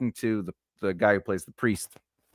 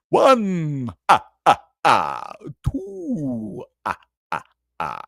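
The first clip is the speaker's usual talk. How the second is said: booming number, then staccato laugh syllables; playful vampire count; 3 semitones higher, much slower than usual. Pretend. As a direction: count like a hammy vampire, punching each ah.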